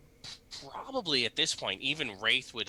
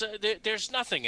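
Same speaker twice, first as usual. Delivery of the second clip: nervous priest voice; 11 semitones higher than usual. Acted.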